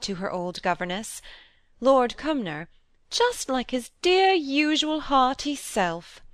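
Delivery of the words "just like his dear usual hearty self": gushing quote. Retold or imitated. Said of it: "rose-coloured accounts".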